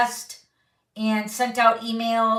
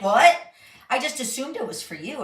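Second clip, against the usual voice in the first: mock surprise, the "What?" much louder, the rest fast; surprised husband; 3 semitones higher, 4 dB louder, faster than usual. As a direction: imitate the husband's baffled disbelief. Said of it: "He's like".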